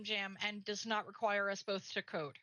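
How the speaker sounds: "does" leaned on, rest plain; stress on does. Shown as a demonstration. Wishing her co-streamer a project without coding, stress on "does". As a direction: press the word "does" in "does not require". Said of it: "Heavy emphasis on does".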